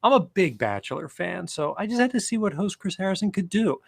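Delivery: amused, rising read with laughs; reading a snarky review aloud. Acted. Reading his own snarky review to friends, amused. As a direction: read a mocking review, enjoying each jab.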